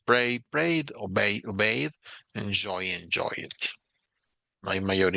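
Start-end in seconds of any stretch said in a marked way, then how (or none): 0.1-3.5 pray, prayed, obey, obeyed, enjoy, enjoyed clearly in English; English pronunciation model. Shown as a demonstration. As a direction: model each pair. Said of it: "modelo ... pronunciación".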